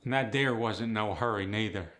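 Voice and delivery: Appalachian storytelling lilt; Appalachian accent. Acted. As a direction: add it like an unhurried Appalachian storyteller. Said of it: "That's very Appalachian".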